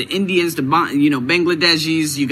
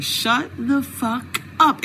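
mock scolding self; 8 semitones higher, 4 dB quieter, much slower than usual. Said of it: "she was like".

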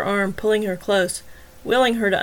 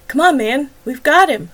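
higher, louder urgent push; urging; 6 semitones higher, 8 dB louder than usual. Acted. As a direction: press him to act now. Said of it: "Wagner urged".

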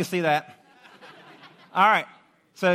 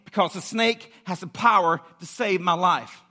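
emphatic, driving declaration, POWER punched; urgent conviction. Acted. Preacher voicing the snakebitten trusting the snake, urgent conviction. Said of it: "the way people felt when they got bit".

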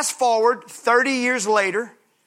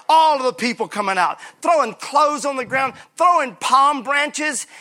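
excited; 4 semitones higher than usual. Acted. Excited crowd scene.

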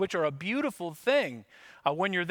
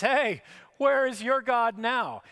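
higher, louder, drawn-out neighbor's taunt; angry yelling; 8 semitones higher, 6 dB louder, slower than usual. Acted. Angry neighbor taunting an exiled Israelite over the fence, yelling. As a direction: yell it slowly like a mocking neighbor. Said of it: "his angry neighbor is yelling over the fence".

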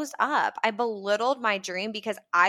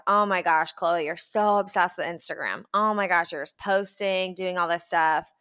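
mocking. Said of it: "they would roll their eyes".

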